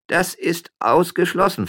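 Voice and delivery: loud, high, slow veto; emphatic refusal. Acted. Policeman refuses miller's wife, emphatically. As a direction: forbid it outright, drawing it out.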